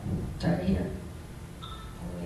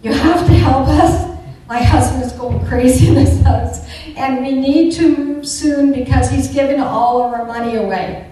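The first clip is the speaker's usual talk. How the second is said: louder, pressing plea for help; urgent plea; 7 dB louder than usual. Retold or imitated. To the real estate agent, an urgent loud plea.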